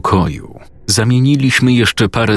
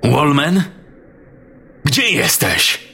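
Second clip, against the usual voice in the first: higher calling voice, searching the room; 9 semitones higher than usual. Acted. Father calls for Wallman to come out, higher calling voice. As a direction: call out to someone hiding.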